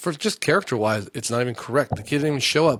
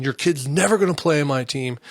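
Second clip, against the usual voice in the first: mild mock yell, pitched up; retold yelling; 4 semitones higher, 4 dB louder than usual. Team owner to player's parent, mildly imitated yelling. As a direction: imitate a heated yell at half strength. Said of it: "and he's yelling".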